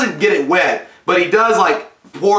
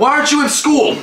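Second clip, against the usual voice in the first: much higher, mock scolding shout; hammed-up yelling parent; 11 semitones higher than usual. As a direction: bark it like a fed-up mom.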